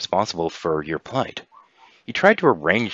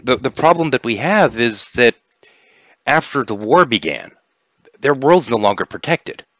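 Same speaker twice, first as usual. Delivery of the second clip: halting, higher-pitched alien envoy; hesitant Syntholo; 7 semitones higher, 7 dB louder than usual. Acted. Syntholo explains the unprotected world to players, hesitant. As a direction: explain a problem awkwardly, stumbling.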